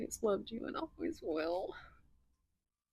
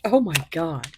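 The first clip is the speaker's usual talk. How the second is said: louder astonished oh my God; shocked exclaim; 3 semitones lower, 9 dB louder than usual. Real, not acted. Tarot reader stunned by another card, loud surprise. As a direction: let it burst out.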